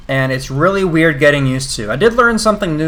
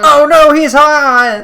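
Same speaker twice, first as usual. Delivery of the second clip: high excited squeal; 13 semitones higher, 10 dB louder, much slower than usual. Pretend. High squeal about a character.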